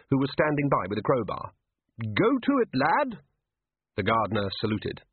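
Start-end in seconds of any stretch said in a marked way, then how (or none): 2.0-3.2 high, booming wizard voice urging the dwarf on; a bluff old wizard barking a command, pitched high; hearty order. A narrator's reading. Ridcully urges the gardener with the crowbar, in a high hearty shout.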